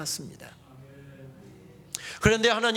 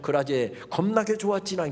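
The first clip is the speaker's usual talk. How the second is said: Jeolla dialect. Retold or imitated. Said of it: "전라도 마-, 말로 바꾸면".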